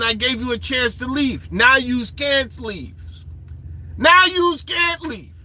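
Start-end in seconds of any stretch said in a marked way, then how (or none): 1.5-3.2 slow, drawn-out mock threat; mock menace. Warning those who ignored the chance to leave, slow mock menace. 4.0-5.3 higher, slow, drawn-out mock threat; emphatic mock menace. Telling those who stayed they are trapped, higher slow mock menace.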